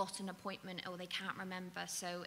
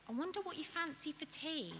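gentle question; 8 semitones higher than usual. Shown as a demonstration. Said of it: "You could say".

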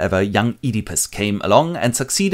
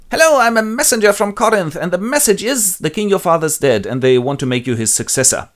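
high, very loud announcement; eager messenger; 10 semitones higher, 5 dB louder than usual. Acted. Messenger announcing himself, high and very loud. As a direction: proclaim yourself.

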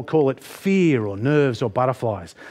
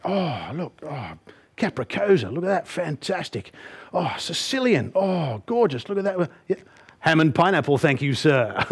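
lightly posh, enthusiastic menu reader; a hint of a posh gent gushing over pizzas; posh friend; 2 semitones higher than usual. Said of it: "got very posh since I spoke".

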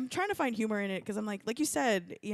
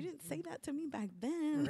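retort; 9 semitones higher than usual. Retold or imitated. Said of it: "I was like".

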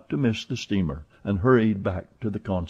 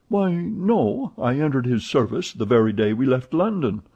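a hint of an eager servant, higher; lightly voiced valet; 3 semitones higher than usual. Passepartout chatting to Fix, lightly voiced. Passepartout talks of Fogg's money.

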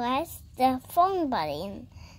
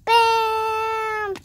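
pretend bam; 8 semitones higher, 8 dB louder than usual. Doll makes a big entrance.

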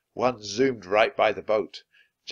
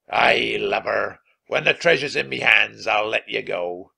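throaty voice; 7 dB louder than usual. Acted. Pirate captain shouting.

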